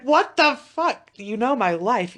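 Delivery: high, loud, drawn-out disbelief; hammed-up indignant shock; mock outrage. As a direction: exclaim as if the quiz has exposed you. Retold reaction to quiz question.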